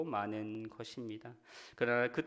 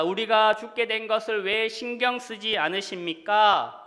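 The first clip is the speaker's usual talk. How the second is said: raised, louder pleading protest; indignant cry; 5 semitones higher, 5 dB louder than usual. Acted. Disciples crying out to Jesus asleep in the storm, indignant cry. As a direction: cry out in reproach, pitched up. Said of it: "호통치듯 소리 질렀을 것입니다".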